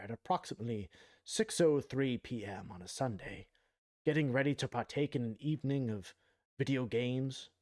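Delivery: hushed wildlife narrator; nature documentary. Acted. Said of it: "so that was my tryout for the nature documentary".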